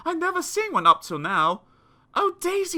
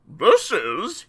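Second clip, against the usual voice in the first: lower, louder gloating dentist; gleeful cry; 3 semitones lower, 6 dB louder than usual. Acted. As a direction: relish every word. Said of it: "he cried with obvious glee".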